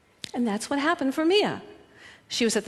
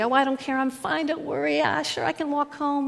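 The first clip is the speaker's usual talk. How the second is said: higher, breezy fake-fine dismissal; mock prickly brush-off; 5 semitones higher than usual. Mimicking a prickly woman refusing help, breezy and dismissive. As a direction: wave off help, pretending all is fine. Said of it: "the kind of cactusy".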